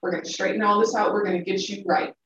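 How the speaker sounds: calm, polite Southern lady, softly voiced; sweet, hushed Southern accent, imitating a mentor; cute Southern accent. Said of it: "most calm and polite voice, in, in the most cute Southern accent".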